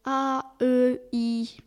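"A, E, I" with the "I" pushed out loud, lips spread; teacher's loud "I", lips stretched; vowel demo. Acted. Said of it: "écartant les deux coins de la bouche".

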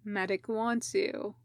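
calmly telling a waking teammate the medic needs him. Acted. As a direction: settle him down quietly. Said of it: "Kakashi said calmly".

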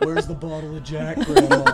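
raspy grandma voice. Retold or imitated. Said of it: "She sounds like she smokes two packs a day".

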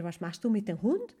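"Hund" rising at the end; rising German question. Shown as a demonstration. Teacher showing the question asked the Spanish way. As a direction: end "Was machst du mit dem Hund?" going up. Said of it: "No importa, claro está, si decir".

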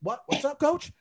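high, innocent questioning; mock-innocent retold reply; acting dumb. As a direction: play clueless, as if you heard nothing. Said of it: "I'm acting dumb".

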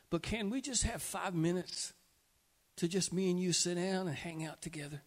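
soft, loving invitation; God speaking tenderly. Acted. God to a busy believer, softly asking for time together. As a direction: gently ask your child to sit with you. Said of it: "He's saying".

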